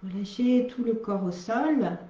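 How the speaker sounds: unhurried guiding voice with long pauses; guided relaxation. Real, not acted. Yoga teacher starting the relaxation, calm guided-meditation delivery. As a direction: ease listeners into stillness, phrase by phrase.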